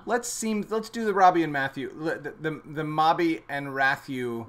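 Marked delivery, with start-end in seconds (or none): 2.6-4.5 "Mobby and Rathew" with swapped first sounds; spoonerized "the Mobby and Rathew"; spoonerism. Shown as a demonstration. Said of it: "he spoonerizes".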